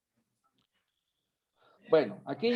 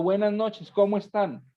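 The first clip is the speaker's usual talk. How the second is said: eager greeting; 4 semitones higher than usual. Shown as a demonstration. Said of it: "con ganas, con ánimo".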